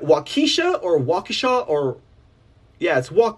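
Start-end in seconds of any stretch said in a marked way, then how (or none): 0.0-2.0 "Waukesha" first as WAH-kuh-shah, then as WAH-kee-shuh; unsure which "Waukesha" is right; two ways to say Waukesha. Shown as a demonstration. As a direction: try both versions of "Waukesha". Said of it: "how you say that?".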